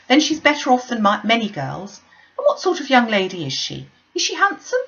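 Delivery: lightly voiced gushing matron; eager, chattering mother; Mrs Bennet.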